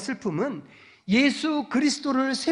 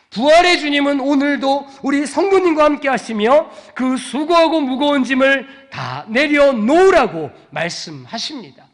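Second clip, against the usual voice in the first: preaching at full force; 4 semitones higher, 7 dB louder than usual. Real, not acted. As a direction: declare victory over despair, rising. (절정에서 힘차게 외치는 설교)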